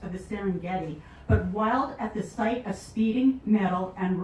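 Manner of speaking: slow, emphatic recital with weighty pauses; dramatic poetry reading. Acted. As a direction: declaim the poem, stretching and punching key phrases. Recites Lion on the Street.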